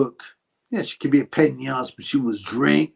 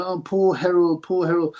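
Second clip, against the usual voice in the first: mocking pity; 6 semitones higher than usual. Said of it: "everyone's always going".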